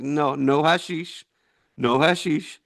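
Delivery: slow imitated Iraqi-accented refusal; lightly done Iraqi accent. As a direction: imitate an Iraqi man's English, drawn out. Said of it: "this is how he sounded to me".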